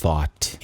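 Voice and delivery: "Thought" with TH made between the teeth; tongue-between-teeth TH. Shown as a demonstration. Teacher models the pronunciation of thought for students, dental TH. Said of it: "esse som entre os dentes".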